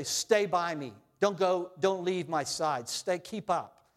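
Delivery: lightly acted firm parental warning; measured, insistent parent keeping a child close; mildly urgent order from a serious parent. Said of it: "They get very serious about that".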